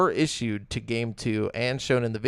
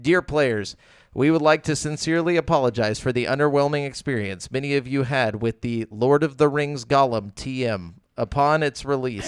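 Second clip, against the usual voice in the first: flat robotic read of an apology; bored recitation. Shown as a demonstration. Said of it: "when you read it like a robot".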